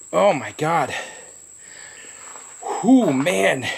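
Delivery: pained talk through pepper burn; hurting mouth, breathing out heat; mouth burning from spicy food. Real, not acted. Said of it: "all here feels like it's burning".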